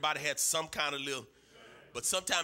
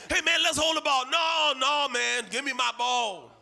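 high, loud playground protest; acted shouting quarrel; 8 semitones higher, 9 dB louder than usual. Boy demanding his football from his friends, shouted protest. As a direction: shout it like boys squabbling over a ball. Boys arguing over the football.

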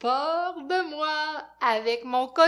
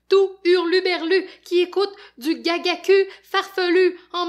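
high, loud frantic rhyming rant; panicked babbling; 8 semitones higher, 10 dB louder than usual. Acted. Fafounet terrified, babbling rhymes at the zombies. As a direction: babble faster and higher in terror. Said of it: "Quand il a peur, il dit n'importe quoi".

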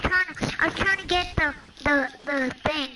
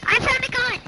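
excited; 7 semitones higher than usual. Real, not acted. Kid excited finding gun.

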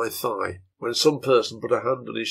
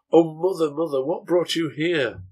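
gentle; 5 semitones higher than usual. Acted. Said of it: "he said in a gentle way".

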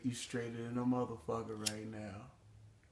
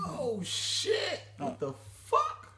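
laughing; 13 semitones higher, 4 dB louder, much slower than usual. Real, not acted. Reacting to high friend.

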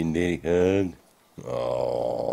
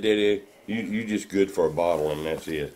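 put-on baby voice; 4 semitones higher than usual.

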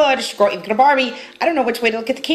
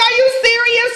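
imitating boyfriend; 9 semitones higher than usual. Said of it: "He was like".

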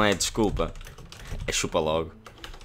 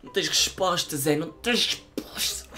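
robot voice; 8 semitones higher than usual. Acted. Bot's synthetic reply voice.

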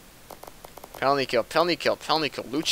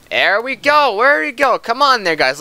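high, loud cheer for his team's goal; rally the team, voice jumping up; excited cheering; 9 semitones higher, 4 dB louder than usual. Real, not acted. Streamer cheering his simulated hockey team, excited.

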